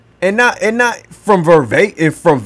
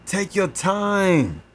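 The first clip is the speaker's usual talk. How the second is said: calm reassurance; 6 dB quieter, slower than usual. Real, not acted. Calming the listener.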